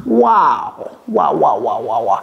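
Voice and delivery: tag; mock amazement. Marvels at the river's length.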